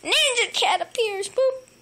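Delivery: high whispered announcement then a loud boop; dramatic whisper. Acted. Owner announcing the cat's entrance in a dramatic whisper. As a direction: tease the entrance like a trailer.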